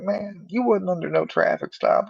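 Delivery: high falsetto friend imitation; whiny-high comic objection; mock dismissal. Friends dismissing his worry.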